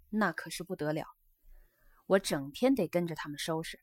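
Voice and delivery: lively, lightly voiced geisha; geisha explaining herself. Geisha tells her guest she is tidy by nature, earnest chatter. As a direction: explain with emphatic openings.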